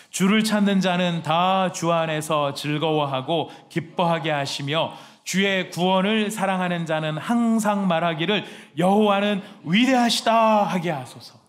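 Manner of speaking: slow, loud unison Bible reading; scripture reading. Real, not acted. Pastor leading the church in reading, slow and loud. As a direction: read it out together, slowly and loud.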